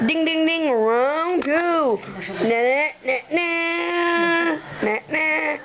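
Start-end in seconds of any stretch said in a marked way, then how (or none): 0.1-0.7 bell imitation. Ringing the bell.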